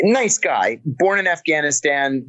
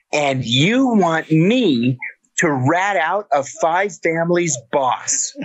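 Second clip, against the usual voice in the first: incredulous retort; slower than usual. Retold or imitated.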